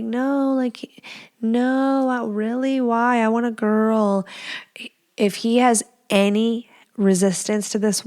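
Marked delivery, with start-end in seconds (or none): 0.0-4.3 mock protesting wife. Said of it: "Maybe you're like".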